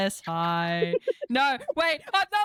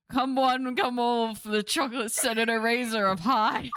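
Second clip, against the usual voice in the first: carnival barker; 5 semitones higher than usual. Pretend. Hawking eraser like a carnival barker.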